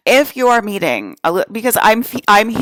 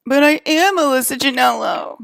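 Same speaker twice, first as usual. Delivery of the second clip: a lightly prissy mimic, a touch higher, sing-song claim; mildly mock the impostor insisting on her name; mock clone voice; 5 semitones higher than usual. Mimicking the clones who claim her name, lightly mock prissy voice. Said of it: "You sound like a psychopath".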